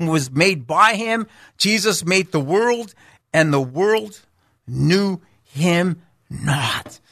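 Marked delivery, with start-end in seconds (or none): 3.3-7.0 sad. Real, not acted. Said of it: "How sad is that?".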